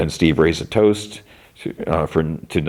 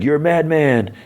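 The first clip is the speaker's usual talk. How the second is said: mock amazement; 10 semitones higher than usual. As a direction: imitate a buddy hailing a wild stunt. Friend hails Dustin's stunt.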